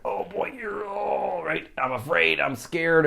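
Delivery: mock a jittery inner voice; nervous fret. Imitating a nervous person at a party. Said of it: "anytime you're like".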